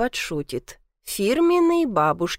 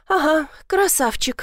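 higher, scornful snort of a line; snorting scornfully; 7 semitones higher than usual. A narrator's reading. Granddaughter mocking grandma's praise with a snort. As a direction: sneer at his looks. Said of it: "фыркнула я".

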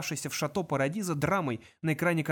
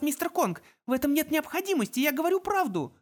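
put-on higher pleading girl's voice; 12 semitones higher than usual. A narrator's reading. Girl begs Kong to believe her, pleading. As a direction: plead urgently for his life.

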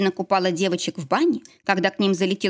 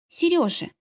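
wife coos to her husband at the station, tender; 10 semitones higher than usual. Acted. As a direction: coo «Серёжа» sweetly to him. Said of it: "нежно проворковала Лена".

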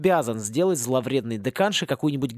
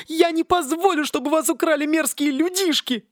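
raging palm tree; 14 semitones higher, 3 dB louder than usual. Acted. Palm raging over its stolen coconuts, high and frenzied. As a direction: rave over your beloved coconuts.

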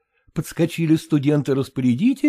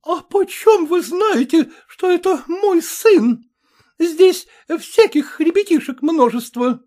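much higher, slow, offended; indignant defense; 14 semitones higher, 4 dB louder, slower than usual. A narrator's reading. Maternitskaya defends her son to the mother, indignant.

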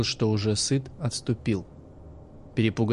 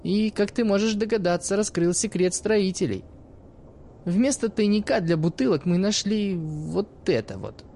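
put-on higher, lively young woman telling a story; sly teenage girl talking to the old man; cheeky girl's voice; 8 semitones higher than usual. Narrator voices the girl Iskra.

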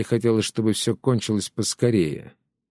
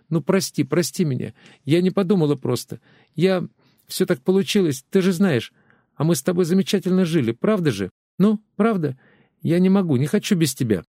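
high, pleading wife's voice; begging her husband to come home; tearful pleading; 6 semitones higher than usual. Acted. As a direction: beg him to forgive her, near tears. Wife begs husband to return.

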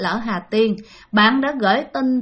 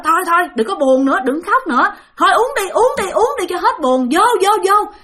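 rowdy drinking cheer; 2 semitones higher, 3 dB louder than usual. Retold or imitated. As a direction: push the drink on him, cheer him up. Friends urge him to drink.

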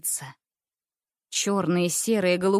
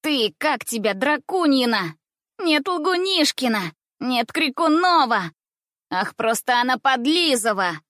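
high mocking girl's voice; jeering schoolgirl, higher pitch; teasing schoolgirl; 5 semitones higher, 3 dB louder than usual. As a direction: taunt the new girl, sing-song.

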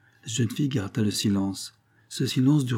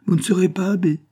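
laughing disbelief; 9 semitones higher, 5 dB louder than usual. A narrator's reading. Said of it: "partit d'un grand éclat de rire".

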